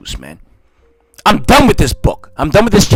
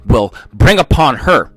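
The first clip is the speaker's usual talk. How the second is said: scripture reading; 2 semitones lower than usual. Acted. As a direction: intone the prophecy gravely. Reads scripture aloud.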